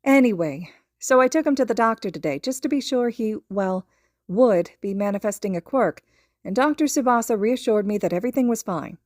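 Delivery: mother recounting the doctor visit on the phone; lightly voiced mother. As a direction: tell the doctor story like a relieved mother. Inko talking on phone.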